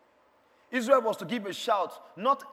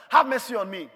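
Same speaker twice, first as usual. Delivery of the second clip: louder cry for mercy; insistent plea for mercy; 6 dB louder than usual. Acted. Rejected believer crying to the Lord, insistent plea. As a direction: call out over the rejection.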